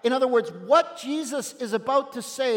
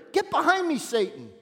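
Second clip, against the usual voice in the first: sharp rebuke, pitch jumping higher on get; 4 semitones higher than usual. Retold or imitated. Jesus rebuking Peter, a mild sharp rebuke. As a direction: scold him firmly. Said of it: "Jesus rebuked Peter".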